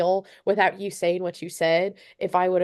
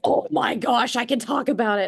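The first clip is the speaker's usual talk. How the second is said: higher-pitched mild mock squeal; retold excited scream; 5 semitones higher than usual. Daughter hearing dad saw the clip, mock excited scream. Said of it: "and I'm, like, screaming".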